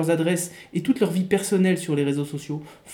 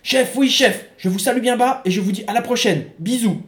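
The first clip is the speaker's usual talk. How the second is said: soldier's reply; 3 semitones higher, 4 dB louder than usual. Acted. Soldier saying goodbye.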